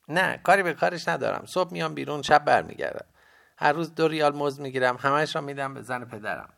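put-on very high, loud boy's voice; young boy. A narrator's reading. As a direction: report it as a boy, pitched well up. Boy character describes his day.

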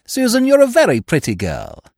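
high, playful flirt; mock flirting. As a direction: coax her sweetly. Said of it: "Go to her and say".

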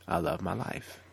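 whispered to yourself; quiet private affirmation. Shown as a demonstration. Quiet repeat of mantra.

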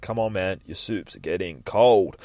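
slow, drawn-out plea; mildly frustrated. Acted. Carer to Phil about his soup, mildly frustrated. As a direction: coax him with understated exasperation. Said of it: "she's just getting frustrated".

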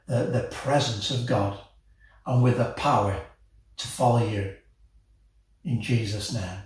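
steady, sincere prayer voice; a pastor praying aloud for the listener. Acted. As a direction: lead the congregation in prayer. Leads the sinner's prayer.

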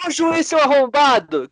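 high, drawn-out heckle at the referee; mock fan heckling. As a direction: holler it slowly like a football fan. Acts out football fan abusing referee.

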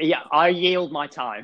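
slow whispered yielding of the floor; parliamentary debate. Pretend.

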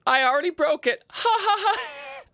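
high, loud giggly neighbor impression; imitating neighbor laughing. Mimicking his neighbor admitting she broke her resolution, laughing. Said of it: "then she's like".

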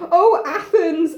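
drawn-out mild mock shout. Oedipus appealing to Athens, slow understated shout. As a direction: call out slowly and theatrically. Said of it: "shouts out".

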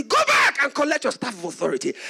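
loud retold order; firm command. Father telling his son to return, loudly firm. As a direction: send him back forcefully, acting the father.

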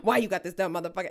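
a light hint of the movie tough guy; Samuel L. Jackson. Angry roommate cursing at her, lightly voiced Jackson. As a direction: roommate ranting in a mild Jackson style. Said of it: "She's Samuel L. Jackson".

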